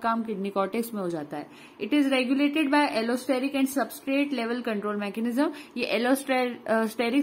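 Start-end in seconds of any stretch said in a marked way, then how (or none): 1.8-5.5 slow, careful note reading; slow dictation. Acted. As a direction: spell it out for note-taking. Reads English note aloud. (धीरे-धीरे notes पढ़ना)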